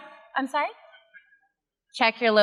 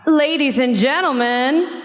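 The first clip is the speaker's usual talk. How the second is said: announcer voice; slower than usual. Acted. Announcing guest like MC.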